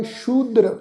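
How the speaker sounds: ਸ਼ੂਦਰ with "sh" and long "oo"; pronunciation demo. Shown as a demonstration. Teacher models the spelled-out word, ਸ਼ੂਦਰ as "shoo-dr". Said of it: "ਇਹ ਸ਼ਬਦ ਦਾ ਉਚਾਰਨ ਕਰਾਂਗੇ".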